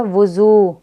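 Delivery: वुज़ू ending in a long oo; drawn-out maroof vowel. Shown as a demonstration. Teacher showing maroof, वुज़ू with long oo. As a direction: stretch the final oo of वुज़ू. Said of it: "इसको खींच कर पढ़ेंगे".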